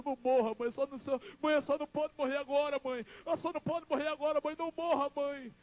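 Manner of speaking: high wail, climbing as it repeats; acted tearful begging. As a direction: plead with a dying mother in a rising cry. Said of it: "E eu ali chorando".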